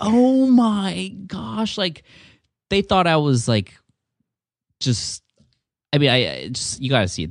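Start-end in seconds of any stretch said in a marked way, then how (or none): 0.0-1.8 very high, shrieking, excited crowd scream. Describing the crowd's reaction to a trick, imitating a crowd screaming. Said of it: "People were screaming like".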